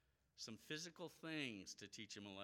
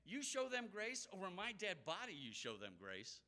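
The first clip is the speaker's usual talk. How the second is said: indignant disbelief; 7 semitones higher than usual. Retold or imitated. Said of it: "It's kinda like saying".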